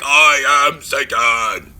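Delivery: loud, slow booming comic bellow; Chris Farley big voice. Retold or imitated. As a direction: roar it like a big blustering oaf playing the devil. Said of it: "like, his big voice".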